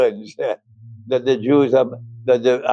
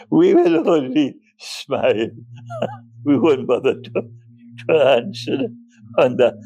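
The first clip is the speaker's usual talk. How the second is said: laughing. Real, not acted. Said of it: "forgive me for laughing".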